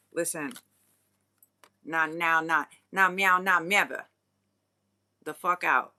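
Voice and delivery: loud, sharp telling-off; firm brush-off. Retold or imitated. Telling returning fakers to get out, loudly. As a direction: slam the door on them.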